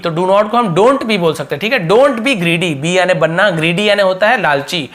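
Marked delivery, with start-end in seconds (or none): 1.9-2.7 spelled out slowly, word by word; slow model sentence. Shown as a demonstration. Teacher slowly repeating the short form for the class. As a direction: give the learners time with each word.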